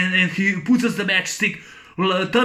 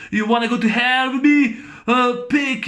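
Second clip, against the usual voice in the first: villain taunt; 5 semitones higher than usual. Retold or imitated. Quotes the Night Slasher taunting.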